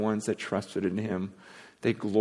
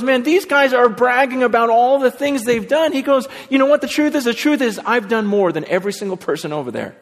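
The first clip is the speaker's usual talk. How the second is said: much higher and louder, a bragging tone that shifts away from his own voice; boastful Paul; 11 semitones higher, 5 dB louder than usual. Retold or imitated. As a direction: play Paul bragging that he has done more than anyone. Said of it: "Paul goes".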